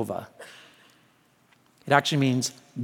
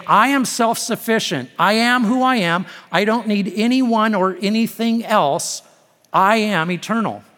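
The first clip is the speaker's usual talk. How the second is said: higher-pitched, forceful proclamation; emphatic declaration; 5 semitones higher, 4 dB louder than usual. Acted. God telling Moses who he is, emphatic declaration. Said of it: "making some emphatic statements".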